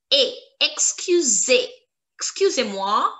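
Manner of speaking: "excusez" ending in a clear ay; EZ as accent aigu. Shown as a demonstration. Teacher explaining the sound of EZ, "excusez" ending in ay. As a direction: stress the ay in "excusez", then add "moi". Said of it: "The sound of E Z is like accent aigu".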